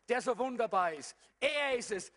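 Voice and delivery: normal talking voice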